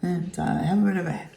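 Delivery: hoarse from laryngitis; rough, worn-out laryngitis voice; grating voice. Real, not acted. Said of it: "my terrible voice that I have right now".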